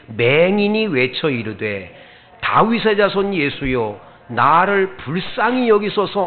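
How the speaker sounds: deliberate verse reading, swelling on the plea; scripture read-aloud. Shown as a demonstration. Preacher leading congregation in Bartimaeus's verse, firm read-aloud. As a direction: lead a congregation's unison reading, firm and measured. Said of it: "다 같이 한번 읽어볼까요".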